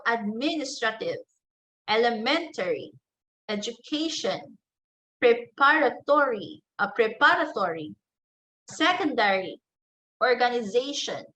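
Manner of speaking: primary and secondary stress in each word, as in "education" and "organization"; two stressed syllables. Shown as a demonstration. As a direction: give "elementary" and "preparatory" two beats of stress. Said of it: "some words that have two stressed".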